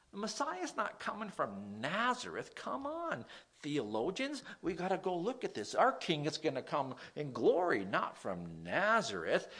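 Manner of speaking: a light mock sneer; mock scoffing. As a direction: scoff at the idea like a dismissive scholar. Mocking sceptics dismissing Nazareth.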